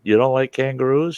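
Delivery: acted surprise. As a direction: question it in exaggerated puzzlement, pitch up. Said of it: "I go".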